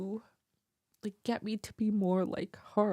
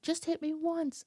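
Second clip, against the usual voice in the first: taunting sister; 9 semitones higher than usual. Retold or imitated. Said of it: "she's like".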